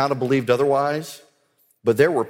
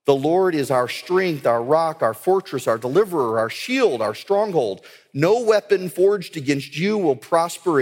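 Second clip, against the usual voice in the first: rousing scripture declaration. Acted. Father charging his children with scripture, rousing and resolute. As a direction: declaim each promise firmly, building in resolve.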